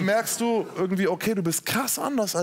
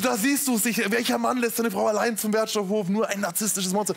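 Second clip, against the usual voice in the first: mock despair; 5 semitones higher than usual. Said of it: "Ich so".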